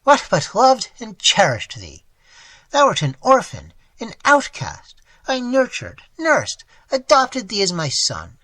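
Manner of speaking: anguished plea. Acted. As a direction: plead with wounded love. Old man's anguished plea continues.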